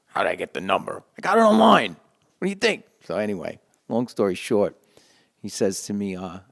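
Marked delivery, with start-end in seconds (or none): 0.1-2.8 much higher and louder, mock exasperated; loud high sarcastic answer from the friend on the line; sarcastic retort. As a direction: throw it back as if it's obvious. Pete, sarcastic retort on phone.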